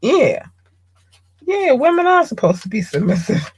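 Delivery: high-pitched mock agreement; son parroting dad. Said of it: "So you go out here and you think".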